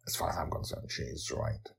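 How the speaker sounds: soft, unvoiced confiding; quiet whisper to the listener; whispered aside. Real, not acted. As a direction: lean in and whisper the truth. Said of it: "host aside".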